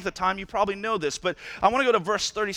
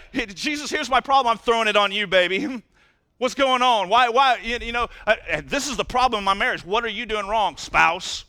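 louder, mock-whiny voice blaming someone else; whiny complainer; 2 semitones higher, 4 dB louder than usual. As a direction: ham up a petty complainer tossing his problem away. Mocking whiners dumping problems on Jesus.

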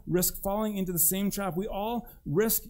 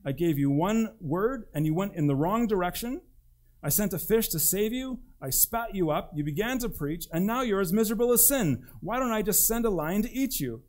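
exasperated God; 5 semitones higher than usual. Acted. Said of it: "He could have responded to him by saying".

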